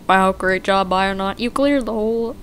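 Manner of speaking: lightly voiced helper robot; a hint of a friendly robot. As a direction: read it as a cheerful caretaker bot. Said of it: "think of what a voice for this".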